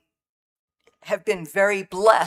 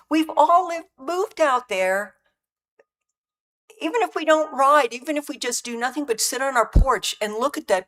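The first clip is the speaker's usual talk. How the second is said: fighting back tears; 6 semitones higher, 3 dB louder than usual. Real, not acted. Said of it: "I'm gonna try not to cry".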